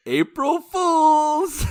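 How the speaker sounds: drawn-out high triumphant yell; spring the prank with a big slow shout; gleeful shout. Retold or imitated. Revealing the prank to the crying sister, loud gleeful yell.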